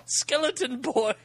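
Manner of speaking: high, slow hammed-up announcer; dramatic announcer voice. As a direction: announce it with mock gravity. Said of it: "the dramatic announcer voice".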